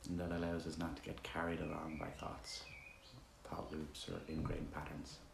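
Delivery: relaxed, conversational meditation leading with roomy silences; guided meditation. Acted. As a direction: guide listeners gently with long pauses between instructions.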